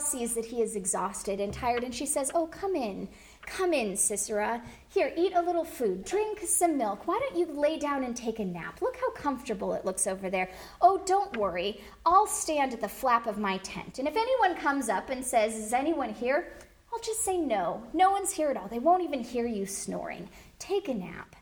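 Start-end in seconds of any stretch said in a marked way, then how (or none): 2.3-20.3 falsely hospitable. Acted. Yael welcoming the exhausted enemy general into her tent, falsely hospitable. 20.6-21.3 hushed whisper, lulling him. Acted. Yael soothing Sisera off to sleep, whispered.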